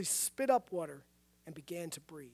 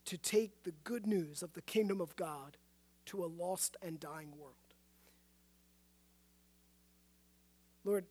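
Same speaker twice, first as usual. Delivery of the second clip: subdued, earnest public prayer; leading prayer. Real, not acted. Leads closing prayer.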